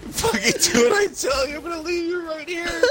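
mock threatening parent. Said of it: "So I can threaten".

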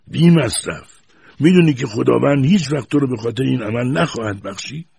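high, loud horrified scolding. A narrator's reading. Grandfather horrified at the smoking boy, loud and high. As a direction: recoil in horror as you scold.

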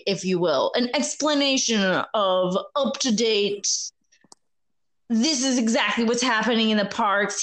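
lightly voiced old storyteller; old man voice. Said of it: "in my most clear old man voice".

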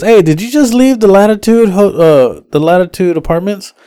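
high-pitched phone query; imitated worried caller. Rider calls driver who left the apartments, imitated worry.

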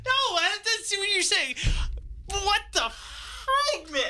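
high, slow laughing disbelief. Real, not acted. Upset laugh at spoiler.

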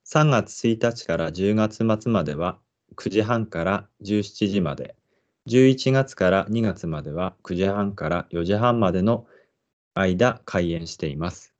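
measured park guide read-aloud; guide narration. Acted. Presenter introducing the park to listeners, guide narration. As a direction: read it out slowly and evenly like an announcer.

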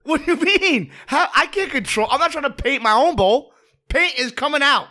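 high, laughing disbelief; incredulous laughing defence; laughing protest. Real, not acted. Laughing protest about painting bowl.

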